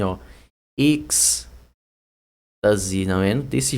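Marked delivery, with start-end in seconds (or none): 0.8-1.5 "êxtase" split as EKS... ta-zi; slow "êxtase", X sounded as K-S; pronunciation demo. Shown as a demonstration. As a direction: hold the K-S in "êxtase", then pause. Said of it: "É assim".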